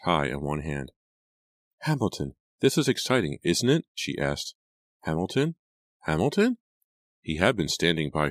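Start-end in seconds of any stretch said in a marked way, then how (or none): 1.8-3.9 excited. A narrator's reading. Excited girl on the pier. 5.0-6.6 anxious calling. A narrator's reading. Searching for missing cousin.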